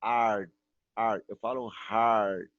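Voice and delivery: hard said with a strong American R; hard, slow, R pulled. Shown as a demonstration. Teacher showing students the right hard. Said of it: "puxo o R mesmo".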